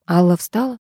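ordinary delivery, nothing marked

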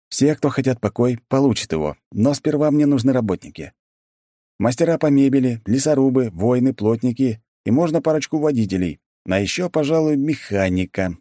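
rally the troops; addressing a crowd. A narrator's reading. Hero commands zombie crowd.

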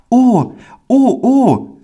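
put-on very high, delighted boyish ohs; overjoyed. A narrator's reading. Pauli grips the man's hand, overjoyed high child voice. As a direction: gasp out each oh in a child's joy. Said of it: "ganz rot vor Freude".

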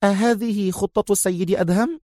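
a hint of eager curiosity; keen interest. A narrator's reading. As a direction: lean in, intrigued. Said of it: "سألته ريهام في اهتمام شديد".

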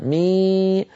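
mock the over-strong مي with a y colour; exaggerated wrong من شيء; wrong ikhfa. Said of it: "كأنه دخل حرف الياء على النطق".

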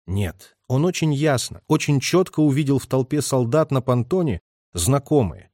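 usual speaking voice

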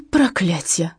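usual speaking voice

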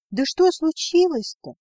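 выше и громче, нетерпеливо; вклиниться в разговор с тревогой; встревоженно. Acted. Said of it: "влезла в разговор Наська". (дочка тревожно влезает в разговор, выше и громче)

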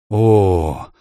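long, loud drawn-out exclamation. A narrator's reading. Susan reacts to hearing Aslan is a lion, drawn out. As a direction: let the surprise stretch out. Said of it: "протянула Сьюзен".

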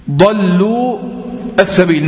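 "ضلوا السبيل" with long final u, a break, then as-sabiil; separate words, unlinked. Shown as a demonstration. Teacher asking if we read it so, "ضلوا السبيل" unlinked. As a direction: keep "ضلوا" and "السبيل" apart, full long vowel. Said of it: "نقرأها كده".

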